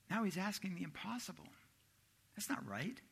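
whispered aside. Acted. Preacher whispering the disciples' complaint. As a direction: breathe it like a secret grumble.

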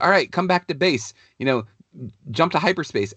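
quick mock pirate captain giving orders; playful nod to the game character; Hondo Ohnaka impression. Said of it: "Hondo Ohnaka's like".

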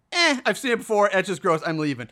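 understated imitation of indifference; mildly annoyed. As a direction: shrug it off, barely bothered.

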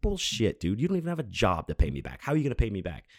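mock outrage, jumping high at the start; retold angry disbelief. Retold argument with tire slasher.

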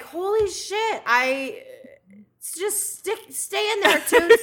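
high, pleading inner voice; comic high plea to her own stomach; pleading with her gut. Retold or imitated. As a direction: beg your stomach to hold it in. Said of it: "And I was like".

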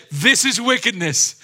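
emphatic declaration. Acted. Preacher delivers the angel's verdict to the ladies, emphatic declaration. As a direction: proclaim it high and hard.

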